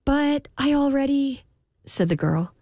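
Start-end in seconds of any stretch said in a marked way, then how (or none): 0.0-1.4 high-pitched, pleading objection; protesting. A narrator's reading. Girl objects to the king's order, protesting. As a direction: start to object helplessly.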